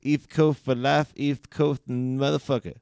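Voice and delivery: "East Coast" dicho "iθ kʰoʊθ"; hammed lisp on "East Coast". Shown as a demonstration. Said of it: "Sorry to anyone that has a lisp".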